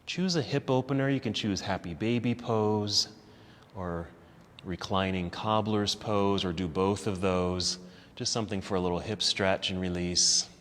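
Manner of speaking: soft, unhurried relaxation voice; guided relaxation. Acted. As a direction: ease them down into rest. Leads closing relaxation.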